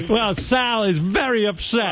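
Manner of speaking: high, slow mock sympathy; put-on high-pitched concern. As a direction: draw it out up high. Answering for Sal in mock concern.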